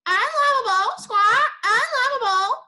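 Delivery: high, loud parrot squawk. Acted. Parrot squawking its taunt at Alfred, high and loud. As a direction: screech it like a parrot. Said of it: "taught the parrot to say".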